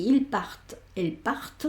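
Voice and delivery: partent with the T sounded, part ending on R; contrast partent and part. Shown as a demonstration. Teacher contrasts plural and singular for students: T sounded only in partent. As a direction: say ils partent with T, then elle part without it. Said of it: "pronuncio esta T".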